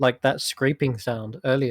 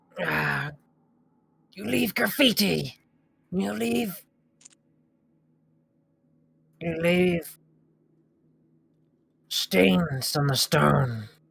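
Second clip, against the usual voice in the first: grating, scraping creature voice, higher; 4 semitones higher than usual. Voicing a hidden creature above the players: scraping creature voice. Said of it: "it's sort of scraping".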